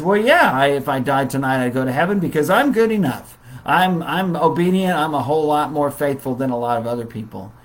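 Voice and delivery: a mock boast, quick and pleased with himself; smug, self-assured. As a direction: play the proud churchgoer sure he's good enough. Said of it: "you have that person who says".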